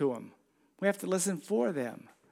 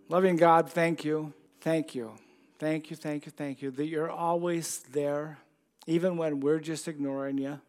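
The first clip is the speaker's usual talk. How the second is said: prayer. Real, not acted. Leads a closing prayer.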